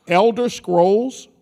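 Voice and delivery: Elder Scrolls, slow, rising like a question to the crowd; hype call. Shown as a demonstration. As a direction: stretch it out to get cheers. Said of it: "let me try this again".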